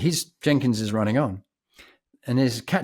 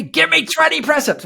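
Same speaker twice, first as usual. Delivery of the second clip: much higher, louder hammed-up command; mock barked order; 5 dB louder than usual. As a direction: bark the order in a squeaky caricature voice. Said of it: "He said".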